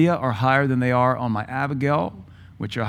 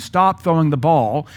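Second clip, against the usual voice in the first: stern command; 3 semitones higher, 5 dB louder, slower than usual. Retold or imitated. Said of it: "you told them four times".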